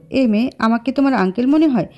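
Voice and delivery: loud scolding. Acted. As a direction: bark it at the girl. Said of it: "জোরে ধমক দিয়ে বলল".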